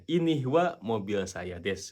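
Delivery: slow, clear dictation; slow model sentence. Shown as a demonstration. Teacher modelling the Japanese order slowly. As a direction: lay out each word slowly. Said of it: "gitu kan bahasa Jepangnya".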